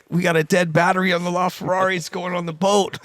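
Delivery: high, urgent rushed alarm; panicked call. Retold or imitated. Joey on the phone to his boss, panicked and high. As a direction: squeal it like everything's falling apart. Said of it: "He's like".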